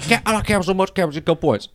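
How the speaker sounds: Steve Harvey impression. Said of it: "your impression of Steve Harvey".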